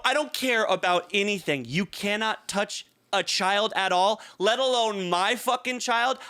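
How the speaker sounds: high, emphatic retold warning; angry confrontation. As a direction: re-enact a parent laying down the law. Re-enacts confronting the man.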